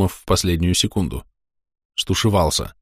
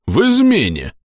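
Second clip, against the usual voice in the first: stern blurt; 10 semitones higher than usual. Acted. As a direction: hit him with the word. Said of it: "сурово бахнул".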